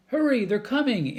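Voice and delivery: high loud alarmed call; urgent warning. Acted. Annie warns of pirates.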